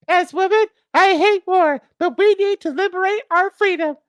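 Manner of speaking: hammed-up high falsetto wife; feminine falsetto. Martha tells George she hates war, loud falsetto. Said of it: "with feminine instincts".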